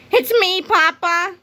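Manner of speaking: put-on high, slow, pleading child voice; pleading kid's cry. A narrator's reading. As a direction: beg to be recognized like a little kid. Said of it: "cried Mister Krupp".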